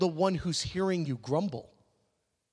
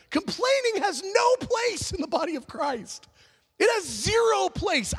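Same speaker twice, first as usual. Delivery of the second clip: much higher and shouted, hammer the point home; preacher's shout; 10 semitones higher than usual. Real, not acted. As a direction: cry it out from the pulpit, full force. Preacher's emphatic declaration.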